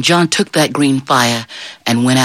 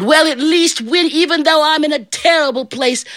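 plaintive John; 13 semitones higher than usual. Acted. John being dragged off by devil, plaintive. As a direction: play up the wistful self-pity.

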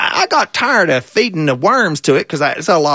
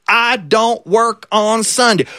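slow, emphatic mule shout; stubborn shout; 4 semitones higher, slower than usual. Acted. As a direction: drag it out and holler it. Stubborn mule refuses the farmer.

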